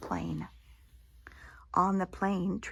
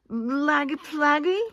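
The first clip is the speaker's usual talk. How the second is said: put-on high, loud toddler babble; baby voice; 7 semitones higher, 6 dB louder than usual. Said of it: "asked the baby".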